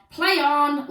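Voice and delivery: loud, firm command; loud, stern teacher command; ordering. A narrator's reading. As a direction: order them to carry on. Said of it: "ordered Miss Battleaxe".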